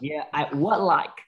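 "would" said light with a short u, not "út". Shown as a demonstration. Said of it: "Không đọc là út đâu nha".

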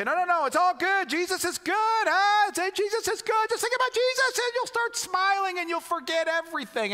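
sing-song brush-off of someone's grief; mocking cheerful churchgoer. Pastor mocking church members who rush past sadness, high and bright. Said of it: "we wanna say".

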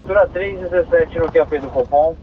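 crackly two-way radio transmission; squelchy handheld radio; police radio. Real, not acted. Dispatcher calls unit.

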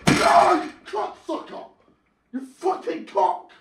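loud yell breaking into cursing; explode, then spit out the insults; real angry swearing fit; furious outburst. Real, not acted.

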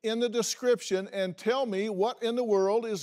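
bright, fast promo read; upbeat show sign-off; announcer. Acted. Host reads show outro.

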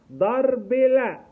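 loud, high, very slow firm command. Shown as a demonstration. A therapist stops a child hitting, loud firm command. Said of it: "واقول له بصوت عالي".

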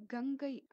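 கங்கை with a firmly voiced g; pressed g. Shown as a demonstration. Teacher contrasting Tamil letters, கங்கை with pressed g. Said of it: "அழுத்தம் கொடுத்து சொல்லக்கூடிய".

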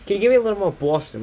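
high, quick mock request; imitated director. Imitates a request made while recording.

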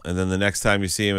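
usual speaking voice

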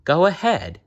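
high, urging villain prompt; coaxing. A narrator's reading. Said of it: "he whispered smoothly".

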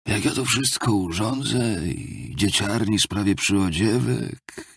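a hint of a maudlin, confessing drunkard; lightly voiced rueful Marmeladov figure. Drunkard confesses his household dreams to a listener, mildly maudlin. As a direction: lightly play a self-abasing petitioner, slightly above the narration.

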